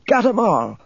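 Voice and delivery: put-on high, crowing old woman's voice; feisty old woman's bravura; triumphant exclamation. A narrator's reading. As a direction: boast it in a high-pitched cry. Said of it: "she exclaimed".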